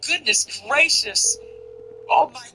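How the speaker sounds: fluttery high put-on voice of shock; mock pearl-clutching. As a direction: imitate a scandalized prude. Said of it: "they're always like".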